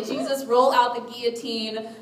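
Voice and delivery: hammed-up surrender with a laugh; dramatic. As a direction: give up theatrically, half-laughing. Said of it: "I go very dramatic".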